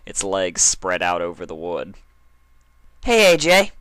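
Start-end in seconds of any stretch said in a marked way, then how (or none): 3.1-3.7 high, loud hail; calling out. Acted. Dash hailing Applejack from the air, calling out loudly. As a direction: call across the field to her. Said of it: "Dash called out".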